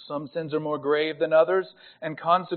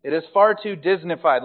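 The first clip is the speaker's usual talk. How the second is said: lightly drawn deep Southern accent; 4 dB louder than usual. Shown as a demonstration. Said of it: "You have to say it with a deep Southern accent".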